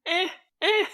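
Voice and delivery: very high, grudging "Eh, eh"; Larry's trademark shrug. Retold or imitated. Host copying Larry judging the sandwich, very high. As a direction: squeak out a so-so grunt. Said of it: "Larry does his trademark".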